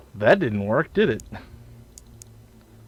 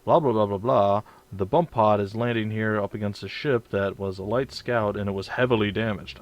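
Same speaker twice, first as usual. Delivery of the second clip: mock announcer. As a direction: parody the game's splash text. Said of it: "a splash screen would come up saying".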